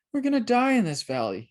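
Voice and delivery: put-on boy terrified in the dark valley, panicked; terrified cry. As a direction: panic at the shadows. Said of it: "he cried".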